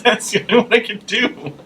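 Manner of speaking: high mock side-of-mouth voice; Danielle. Imitating a friend excusing her impressions, high side-mouth voice. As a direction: squeeze it high out of one corner of the mouth. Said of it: "She would talk out of the corner of her mouth".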